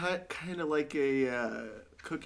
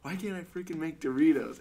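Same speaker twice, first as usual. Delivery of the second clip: mock frustration; 4 semitones higher, 3 dB louder than usual. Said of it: "and he's like".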